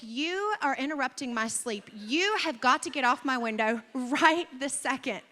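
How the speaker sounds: lightly indignant, emphatic telling-off; mock scolding. Sleeper to the woodpecker at her window, mock scolding.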